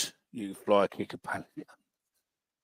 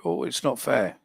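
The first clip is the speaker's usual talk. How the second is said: higher pitched mocking whine; 5 semitones higher than usual. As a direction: imitate a sulky fan moaning. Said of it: "whine and go".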